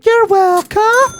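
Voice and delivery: cocky slow-drawn you're welcome; smug. Pretend. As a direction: drag it out like a gift to her. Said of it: "look you in the eye, baby, and say".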